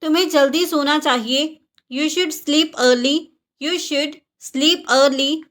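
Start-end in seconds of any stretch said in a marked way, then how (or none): 3.6-5.4 slow, spelled-out learner repeat; slow teaching pace. Shown as a demonstration. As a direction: say it slowly so learners can follow. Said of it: "repeated for learners".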